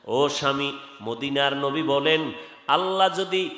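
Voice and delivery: rhythmic, chanted exhortation; melodic waz preaching. Real, not acted. Preacher exhorting congregation about wives and husbands, chanted preaching. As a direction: preach in singsong with lengthened endings.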